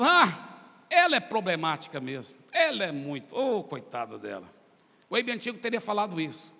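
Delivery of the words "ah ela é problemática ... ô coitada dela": loud, lower-pitched judging remark; dismissive old self. Retold or imitated. Preacher as his old self judging the young woman, dismissive. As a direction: write her off loudly.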